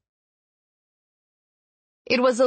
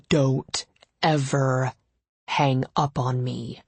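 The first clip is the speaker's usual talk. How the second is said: slow, hard-edged warning; snapped; 2 semitones lower, slower than usual. Acted. Gideon scolding Ava on the phone, slow snap. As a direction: lay down the law, slowly. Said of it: "Gideon snapped".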